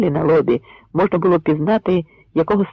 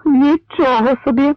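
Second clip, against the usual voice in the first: high, louder admiring "Нічого собі"; approving exclaim; 10 semitones higher, 4 dB louder than usual. Acted. Zorka praising the rhyme, in a raised admiring voice. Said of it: "похвалив Зорка".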